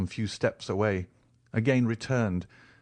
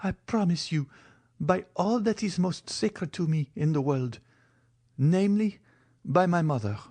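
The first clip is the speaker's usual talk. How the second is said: put-on higher, pleading young woman; Valentine's voice; 9 semitones higher than usual. A narrator's reading. Valentine's lines.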